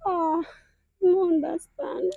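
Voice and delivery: quiet, overwhelmed and tearful; real happy tears, softly. Real, not acted. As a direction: speak softly while starting to cry. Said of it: "You're crying".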